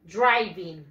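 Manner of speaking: driving said "DRY-ving", falling; low, punched first syllable on driving; correct pronunciation. Shown as a demonstration. Teacher models for students to repeat, clear "DRY-ving". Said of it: "And the pronunciation is".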